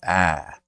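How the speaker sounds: Boston-style fronted "Ah"; front vowel demo. Shown as a demonstration. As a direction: say "Ah" fronted, tongue behind the front teeth. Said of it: "right behind your front teeth when you go".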